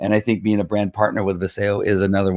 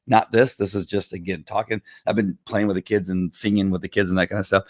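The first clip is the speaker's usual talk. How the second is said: hoarse, worn-out voice; 2 semitones lower, 4 dB quieter than usual. Real, not acted. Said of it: "So my, my voice is kinda hoarse".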